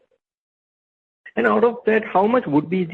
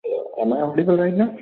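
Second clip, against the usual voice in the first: faint and muffled on the phone line; too far from the phone mic; faint speakerphone voice; 4 semitones higher than usual. Real, not acted. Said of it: "your voice is very low right now".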